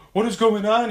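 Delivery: hammed-up panic, high and loud; the speaker overacting. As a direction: overact it like a terrible horror lead. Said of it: "he's, like, so overacting".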